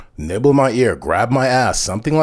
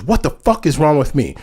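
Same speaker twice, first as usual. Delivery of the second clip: heated retold demand, pitched up; acted indignation, higher than usual; indignant; 5 semitones higher, 3 dB louder than usual. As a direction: throw it back as an offended challenge. Friend's question repeated, now angry.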